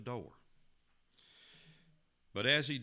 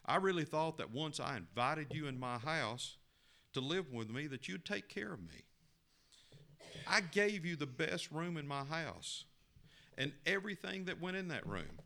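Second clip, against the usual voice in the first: pleading complaint; 6 semitones higher than usual. Acted. Young man complains to Jesus.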